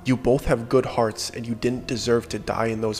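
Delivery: quiet and choked up with relief; teary relief. Retold or imitated. Guide saying goodbye in the parking lot, softly tearful. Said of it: "He still had tears in his eyes".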